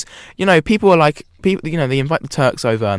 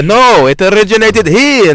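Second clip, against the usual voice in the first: mock argument; 8 semitones higher, 9 dB louder than usual. Mock Middle Eastern argument.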